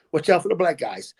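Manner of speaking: hint of a western Canadian accent. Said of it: "Canadian accent from the western part is".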